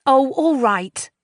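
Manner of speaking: put-on high drawn-out teen surrender; reluctant giving in. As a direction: give in with a sigh. Giving in to friend.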